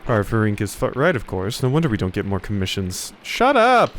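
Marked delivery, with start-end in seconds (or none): 3.2-3.9 sharp yell, much higher and louder; angry shout. Acted. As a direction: snap at him to shut up at once. Bickering monks, sudden outburst.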